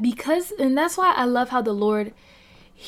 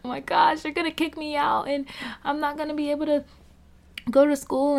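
higher, rushed panicky voice, imitating her old self; blurting out the fear all over again in a higher voice; retold panic; 6 semitones higher, faster than usual. Retelling how she panicked about losing school, higher and rushed.

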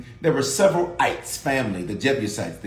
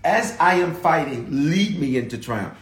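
prayer. Shown as a demonstration. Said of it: "Your prayer has to be".

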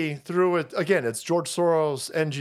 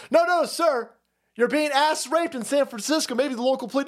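higher, pushy operator voice; mock dispatcher; 6 semitones higher than usual. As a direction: talk him down like an exasperated dispatcher.

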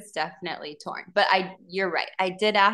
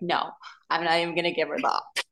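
laughing quote; 2 semitones lower, 3 dB quieter, much faster than usual. Retold or imitated. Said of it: "And then I was like".

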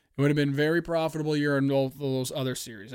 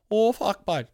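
put-on southern accent; 6 semitones higher, 5 dB louder, slower than usual. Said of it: "That's what they sound like".

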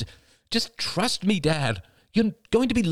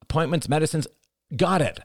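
escalating exasperation; 10 semitones higher than usual. A narrator's reading. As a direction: argue with your mother on the phone. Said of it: "Cassie's voice escalated".

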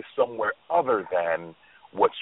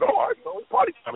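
excited; faster than usual. Retold or imitated. Jamie retold celebrating nomination.

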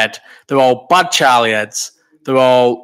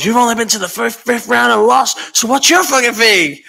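mock reporter taunt; 10 semitones higher than usual. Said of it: "where he goes".

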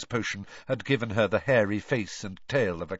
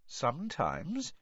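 sly; 4 semitones higher, 6 dB quieter, slower than usual. Acted. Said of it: "said Myrtle rather slyly".

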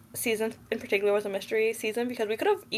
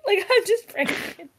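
laughing; 9 semitones higher, 3 dB louder than usual. Retold or imitated. Acting out the murderer's prank claim.

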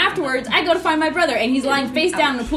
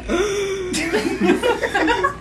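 high, exaggerated gasp; big pretend intake of breath; mock gasp; 8 semitones higher than usual. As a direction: act out a dramatic gasp. Acting out her reaction.

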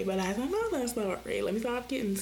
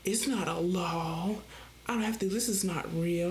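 mock tough guy; 4 semitones lower than usual. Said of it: "like they a real G".

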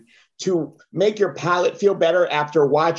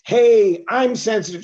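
sensitive singer; 4 semitones higher, slower than usual. Retold or imitated. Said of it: "He's like".

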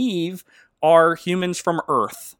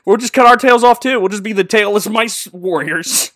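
eager mice; 6 semitones higher, 7 dB louder than usual. Retold or imitated. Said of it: "mice buddies behind him are like".

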